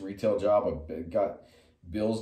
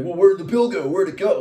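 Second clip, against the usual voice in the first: louder, higher feigned confusion; mocking the vendor; 8 semitones higher, 7 dB louder than usual. Parodying the vendor hunting for a bill, mock puzzled. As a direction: ham up his fake search.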